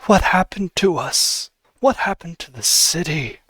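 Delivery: a hint of a grieving old noble, drawn out; understated sorrowful lament over his fallen house; mournful ghost.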